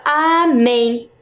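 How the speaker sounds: "amém" drawn out in two slow syllables; sounded-out syllables. Shown as a demonstration. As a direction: stretch "amém" for pupils to hear its stress. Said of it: "Qual é a sílaba mais forte". ("amém" alongado, sílaba por sílaba)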